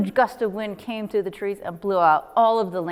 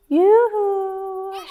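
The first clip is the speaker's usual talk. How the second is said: high, loud yoo-hoo; shouted call; 11 semitones higher, 4 dB louder than usual. Acted. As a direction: call out from the bank. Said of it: "she shouted".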